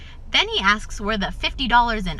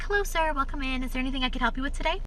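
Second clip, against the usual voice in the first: higher-pitched customer-service hello; shop greeting; 4 semitones higher than usual. Retold or imitated. Clerk welcoming a man into the store, polite greeting.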